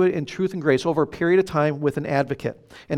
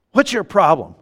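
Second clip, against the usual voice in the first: higher, louder retold challenge; challenging wife; 4 semitones higher, 5 dB louder than usual. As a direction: play the wife pressing her husband. Replaying wife's challenge in a quarrel.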